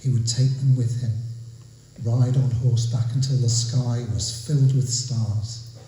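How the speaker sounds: measured storytelling verse; deliberate, evenly weighted poem recital; poetry reading. Acted. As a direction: recite the tale phrase by phrase, with pauses. Reads own poem aloud.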